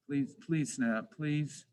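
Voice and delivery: quiet, slow plea to a tool that won't snap; pleading. Real, not acted. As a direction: coax the stubborn software, softly and slowly. Begging the software to snap.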